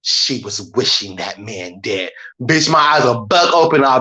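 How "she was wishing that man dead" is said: low, slow true-crime narrator voice; lightly voiced documentary narrator; imitating a crime-show voice-over, lower and slower; mock crime-show narrator. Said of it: "that deep voice".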